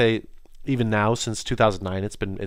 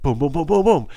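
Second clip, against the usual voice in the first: quick excited booms punched higher and louder; 6 semitones higher, 5 dB louder than usual. Real, not acted. Vlogger shows how fast his Russian improved with excited booms. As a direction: bang out each boom with glee.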